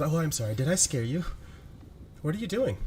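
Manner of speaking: lightly voiced teasing spirit, rising at the end; a hint of a sly woman's voice, sweetly mocking; mock-sorry spirit taunting Kane; Jezebel's voice. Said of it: "changes to Jezebel's voice".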